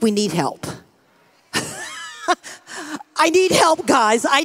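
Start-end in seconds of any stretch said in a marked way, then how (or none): 1.5-3.1 a sudden high laugh at herself. Real, not acted. Preacher laughing at the crowd about needing help, a sudden high laugh. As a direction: laugh at your own need.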